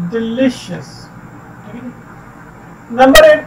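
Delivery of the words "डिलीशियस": डिलीशियस as de-LI-cious; stress on LI. Shown as a demonstration. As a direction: middle syllable of डिलीशियस carries the weight. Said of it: "pronunciation इसकी बनती है".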